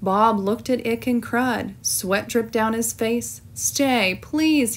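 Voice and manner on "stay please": pleading. Acted. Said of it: "he pleaded".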